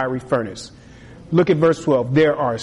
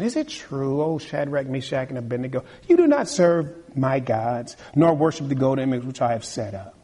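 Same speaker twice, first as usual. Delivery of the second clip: soft, mock-sweet question; sarcastic king; 3 semitones lower, 3 dB quieter than usual. Nebuchadnezzar quizzing the three youths with quiet sarcasm. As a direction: fake concern dripping with condescension. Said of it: "Look at the deception".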